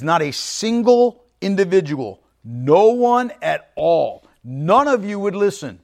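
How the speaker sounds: slow, deliberate emphasis on "no one at all"; emphatic. Shown as a demonstration. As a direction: stress on "no one at all", drawn out slowly. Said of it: "it's very emphatic".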